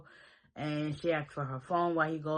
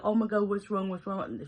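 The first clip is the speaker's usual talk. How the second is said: mock panicked fuss; 5 semitones higher than usual. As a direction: imitate an overanxious boyfriend. Doting boyfriend panics over her.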